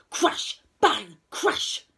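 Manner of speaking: loud storm sound words; thunder imitation. A narrator's reading. Storyteller voices the thunder at night, loud bursts. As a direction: hit each crash and bang hard.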